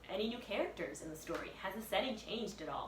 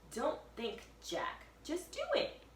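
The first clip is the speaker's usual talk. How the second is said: high, bossy little sister; chirpy urging girl voice; Annie urging; 8 semitones higher than usual. Acted. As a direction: push him on, rising high on do it. Annie urging, pitch jump.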